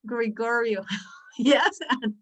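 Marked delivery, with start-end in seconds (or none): 0.1-0.8 "Gregorio" with relaxed schwa vowels; schwa demo. Shown as a demonstration. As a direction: say "Gregorio" with the tongue resting in the middle. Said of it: "I use the magic of the schwa and I say".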